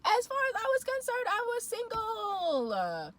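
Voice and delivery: high, loud, laughing words. Real, not acted. Insisting she was single, a high laughing voice. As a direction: say it through leftover laughter.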